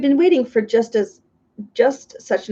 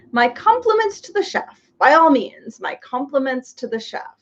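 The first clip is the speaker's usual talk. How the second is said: pompous humbug; 3 semitones higher than usual. Acted. Humbug praising the banquet, pompous and grand. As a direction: announce it grandly to no one.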